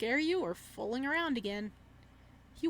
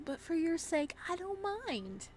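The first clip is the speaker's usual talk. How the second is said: creepy killer voice; 8 semitones higher, slower than usual. Acted. Killer offers the body.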